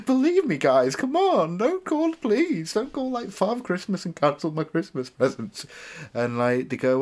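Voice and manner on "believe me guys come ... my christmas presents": very high, loud mock begging; hammed-up tearful appeal; desperate pleading. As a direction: plead like a panicking small child. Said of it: "I start crying".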